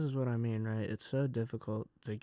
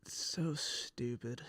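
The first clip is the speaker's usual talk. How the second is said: slow whispered resignation; defeated whisper; 5 dB quieter, slower than usual. Real, not acted. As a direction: breathe it out, worn down. Deflated after angry rant.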